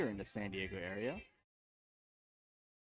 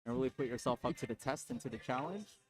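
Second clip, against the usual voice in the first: polished customer-service phone voice; sweet salesy phone pitch; telephone voice; 3 semitones higher than usual. Pretend. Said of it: "You like my telephone voice?".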